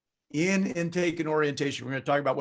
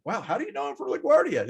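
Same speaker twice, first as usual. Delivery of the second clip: quick, higher-pitched mock amazement; imitated surprise; 5 semitones higher, faster than usual. Customer amazed the waiter knows him, imitated surprise. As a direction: act the astonished customer, fast.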